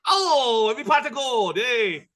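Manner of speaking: high, wailing leprechaun voice; a leprechaun whining over his lost gold. Pretend. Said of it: "leprechaun at the end of the rainbow".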